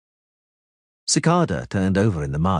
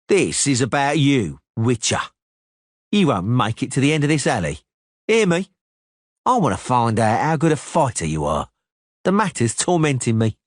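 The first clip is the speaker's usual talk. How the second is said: cocky swordsman, pitched up and pushy; Cicada's taunting challenge; 5 semitones higher than usual. Acted. Cicada taunting the witcher in an alley, cocky raised voice. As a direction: goad the witcher into a fight. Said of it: "narrator voicing Cicada".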